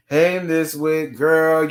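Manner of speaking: ordinary delivery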